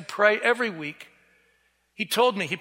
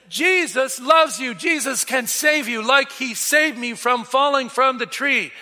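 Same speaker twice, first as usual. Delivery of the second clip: triumphant proclamation; 4 semitones higher, 3 dB louder than usual. Retold or imitated. Jumping up, proclaiming to crowd.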